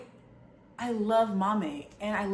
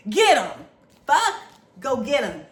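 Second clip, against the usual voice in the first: excited cheering; 4 semitones higher, 9 dB louder, slower than usual. Real, not acted. Cheering on horror book revenge.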